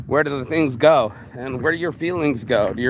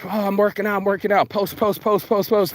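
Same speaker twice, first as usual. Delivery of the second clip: mildly mocking homie; 5 semitones higher than usual. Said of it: "My homie who was like".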